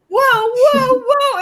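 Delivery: high mock startled whoa; acting out falling backwards; lightly hammed-up surprise. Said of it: "and I'm like".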